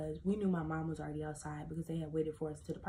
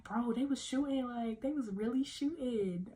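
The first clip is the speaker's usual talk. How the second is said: amused retelling; 5 semitones higher than usual. Retold or imitated. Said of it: "I thought it was funny".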